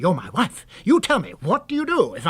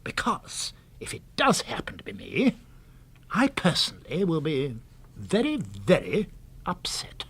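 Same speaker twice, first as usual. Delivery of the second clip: whispered and softer, slowing at the end; hushed self-pity; 2 semitones lower, 6 dB quieter than usual. Acted. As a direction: murmur it as if you can't bear to say it aloud. Frank's self-pitying plea to wife.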